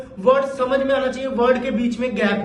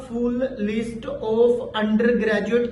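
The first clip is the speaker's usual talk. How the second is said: overly slow; much slower than usual. Shown as a demonstration. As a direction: drag every word out very slowly. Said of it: "ये काम भी आपने बिल्कुल नहीं करना". (बहुत ज़्यादा धीमा, गलत उदाहरण)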